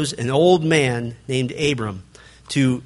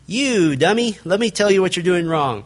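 condescending scolding, lightly played; mock rude rebuke; 3 semitones higher than usual. Preacher mocking a blunt rebuker, condescending. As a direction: talk down to them like a fool. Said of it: "rather than".

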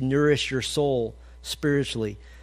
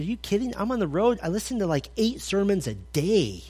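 imitating the trucker; 5 semitones higher than usual. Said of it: "He said".

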